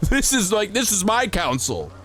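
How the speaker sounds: hammed-up courtroom scolding; mock outrage. Mock courtroom tirade at chat.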